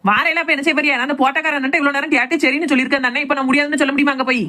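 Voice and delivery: scolding without much extra volume; nagging protest. Acted. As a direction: nag the husband into coming along. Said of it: "கத்தாத".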